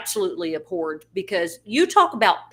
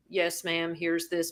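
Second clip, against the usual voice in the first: robotic; 3 semitones lower, 6 dB quieter, slower than usual. Retold or imitated. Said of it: "be very robotic".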